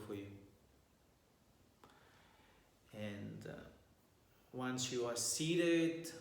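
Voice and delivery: calm meditation guide with long pauses; guided meditation. Real, not acted. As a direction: guide listeners gently through posture and breath, leaving long silences.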